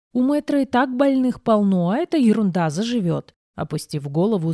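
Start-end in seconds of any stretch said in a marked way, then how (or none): 0.1-3.4 put-on mumbling teenager. A narrator's reading. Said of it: "забубнил подросток".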